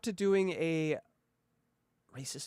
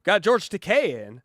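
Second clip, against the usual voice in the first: slow, louder announcement; mildly excited; 2 semitones higher, 6 dB louder than usual. Retold or imitated. Host teasing the week's guest, mildly excited. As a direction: announce the guest with a little relish. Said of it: "You knew".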